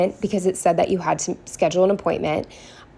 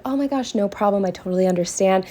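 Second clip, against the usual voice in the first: fake sweet; faster than usual. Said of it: "all smiles, like".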